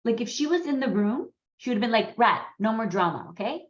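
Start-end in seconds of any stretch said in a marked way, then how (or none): 2.2-3.7 imitated no-nonsense remark, usual pitch; Saloni. Friend imagined in the room, imitated no-bullshit manner. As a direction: say it firmly, with a questioning okay. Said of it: "that's how she spoke".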